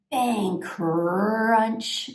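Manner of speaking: spoken crash sound effect with a drawn-out crunch; mock bang and crunch; imitated crash. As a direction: act out the noise, rolling through "crunch". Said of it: "really loudly".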